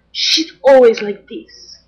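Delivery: high, loud, slow prissy voice; hammed-up high diva whine; mocking Vanessa. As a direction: play a snooty star dodging cameras. Paparazzo imitates Vanessa hiding.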